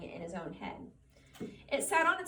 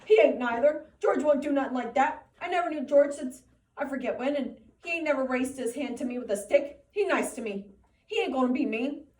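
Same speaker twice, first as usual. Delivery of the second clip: loud, higher belligerent retort; 4 semitones higher, 9 dB louder than usual. A narrator's reading. Lenny shouts back at the rabbit, belligerent. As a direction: fight back hard. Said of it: "Lenny retorted belligerently".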